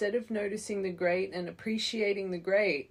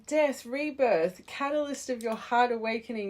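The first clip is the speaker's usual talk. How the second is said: excited; 4 semitones higher, 5 dB louder than usual. Real, not acted. Card reading building to rebirth.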